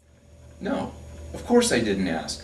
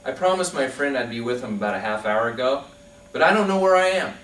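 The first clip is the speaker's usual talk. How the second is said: higher, somewhat louder call from the balloon; 7 semitones higher, 4 dB louder than usual. Acted. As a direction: shout it down, a bit lighter this time. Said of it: "and he shouts".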